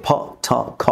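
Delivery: ফ, থ, খ with a puff of h on each; aspirated ফ, থ, খ, said separately; aspiration. Shown as a demonstration. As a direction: release air after each of ফ, থ, খ. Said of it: "অ্যাসপাইরেশন হিসেবে উচ্চারণ করব".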